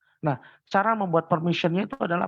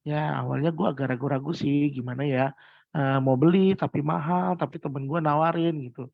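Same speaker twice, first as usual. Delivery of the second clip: hesitant, doubtful; 3 semitones lower than usual. Shown as a demonstration. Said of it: "berubah intonasinya dari yang".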